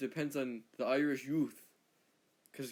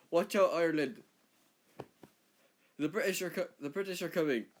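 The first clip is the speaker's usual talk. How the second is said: raised, louder alarm call; warning cry; 3 semitones higher, 4 dB louder than usual. Acted. Scots warning Ireland of the British, mock warning cry. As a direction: sound the alarm, mildly hammed-up. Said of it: "the Scots came in and said".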